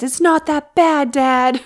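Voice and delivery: put-on high, loud kid protest. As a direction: play a kid pleading with Dad. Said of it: "here's Colin or one of the kids".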